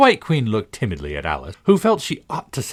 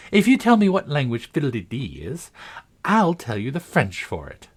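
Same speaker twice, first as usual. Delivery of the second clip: triumphant; 7 semitones higher than usual. A narrator's reading. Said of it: "she exclaimed triumphantly".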